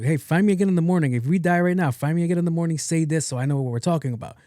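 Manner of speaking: hurried, high, spelling out the plan; urgent instructions. Acted. Acting out how she should speak.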